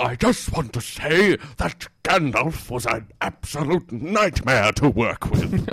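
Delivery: lightly hammed-up actor airing a grievance; Ian McKellen. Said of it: "My name is Ian McKellen".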